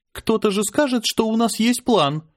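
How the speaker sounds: forced out. A narrator's reading. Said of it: "наконец выдавила она".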